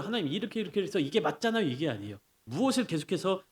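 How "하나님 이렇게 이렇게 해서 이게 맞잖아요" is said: higher-pitched mock debater proving a point; mock logical arguing. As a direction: imitate someone arguing logic at God. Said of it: "하나님을 논리적으로". (논리로 따지는 흉내)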